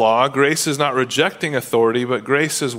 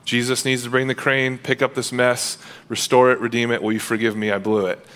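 humble confession. Pretend. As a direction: confess it gently, sinking as you go. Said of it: "if you're humbly confessing".

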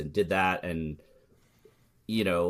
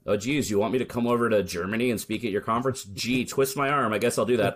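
playfully feigned reluctance; mock reluctance. Speaker jokes about conference invitations abroad, mock reluctant. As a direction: pretend you need persuading, tongue in cheek.

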